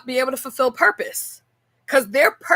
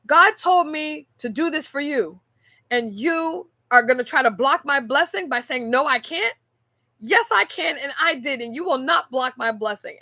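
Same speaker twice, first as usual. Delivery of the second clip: high, firm, insistent lecture; a lighthearted mock reprimand; insistent scolding; 5 semitones higher than usual. Coworker insisting on her gift, high and insistent. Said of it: "She said".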